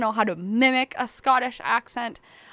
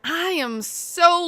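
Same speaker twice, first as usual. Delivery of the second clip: laughing; 9 semitones higher, 5 dB louder, much slower than usual. Real, not acted. Joking about being poor.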